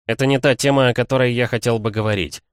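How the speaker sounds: твёрдо, громче, с нажимом; осади собеседника повышенным голосом; повышенный голос. Acted. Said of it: "я чуть повысил голос". (строго, повысив голос)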